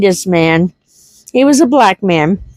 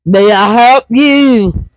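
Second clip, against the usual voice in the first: deep speaker voice; slower than usual. Retold or imitated. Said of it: "this voice that came over the speaker".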